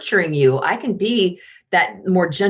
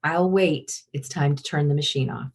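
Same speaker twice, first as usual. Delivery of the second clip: unhurried calm; 4 semitones lower, 4 dB quieter than usual. Shown as a demonstration. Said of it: "queens are like".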